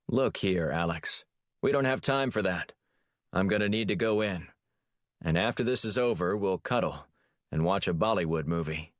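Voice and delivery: lightly voiced Brady Hawk, a touch brisk; a hint of the hero's tough-guy tone, half-joking; light playful impression of a field agent. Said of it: "the speaker's impersonation of Brady Hawk".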